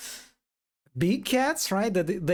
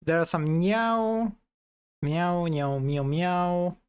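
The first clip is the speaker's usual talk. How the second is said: cat meow imitation. Shown as a demonstration. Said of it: "it's all like meow".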